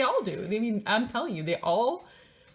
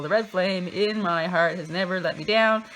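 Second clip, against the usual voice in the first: mock inspirational; 9 dB louder than usual. Mock inspirational reading aloud.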